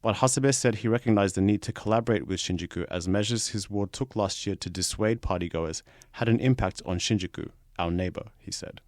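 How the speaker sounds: steady, projected newsreader delivery; news read. Acted. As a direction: read the article out sentence by sentence, punching each opening. Reads the article aloud.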